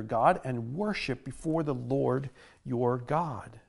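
solemn, measured Bible reading; scripture reading. Acted. Reads scripture aloud.

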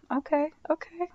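breathy whispered okay, okay; sly whispered aside to the viewer. Real, not acted. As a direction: drop to a knowing whisper. Aside reacting to the handcuffs joke.

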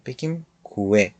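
کوه drawn out slowly with a rounded w; slow demo. Shown as a demonstration. Teacher models the word for students, slowly. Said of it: "رش رو حذف کنیم".

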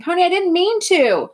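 high, loud desperate cry; remorseful scream; screaming after him. A narrator's reading. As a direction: yell it after someone running away. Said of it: "Derry screamed".

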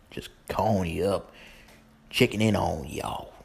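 put-on easygoing country radio host, Southern accent. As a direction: greet the listeners in a folksy Southern accent. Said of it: "That's my little southern voice".

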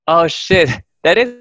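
high-pitched startled discovery; retold sudden realization. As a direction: act out the penny dropping, voice jumping up. Friend realises it's his shadow.

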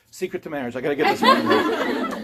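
lightly voiced eager young woman; eager seminary girl. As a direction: play the keen student who wants the secret. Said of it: "In a seminary, the guy".

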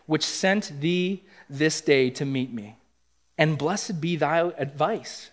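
slow, measured King James reading; scripture reading. Acted. Preacher reads David's blessing to the church, slow and solemn. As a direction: read the verse slowly and solemnly.

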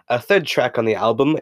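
lightly put-on British accent; slipping into British accent. Podcaster listing Beatles album tracks, mild mock British accent. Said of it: "why am I talking like this?".

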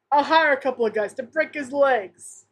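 lightly put-on Italian gangster accent; casual Italian-accented tough guy, hammed up a little; Italian mobster accent. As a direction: play an easygoing mobster with a hint of Italian accent. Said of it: "my Italian accent".

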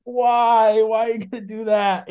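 high, loud mock protest; unthrilled dad. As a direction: imitate a dismayed father questioning his kid. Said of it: "dad was not too thrilled about it".

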